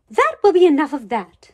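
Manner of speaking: loud, firm classroom scolding; stern teacher. Acted. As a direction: shut the kids down sternly.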